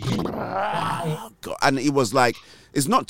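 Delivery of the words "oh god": high, gasped retold reaction; startled awe. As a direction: act out being taken aback by a divine reply. Retells reaction to God answering.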